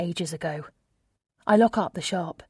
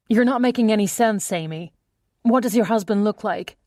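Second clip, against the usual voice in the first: raised, urgent woman's voice; other woman voice; 3 semitones higher, 5 dB louder than usual. Acted. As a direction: press her with rising pitch.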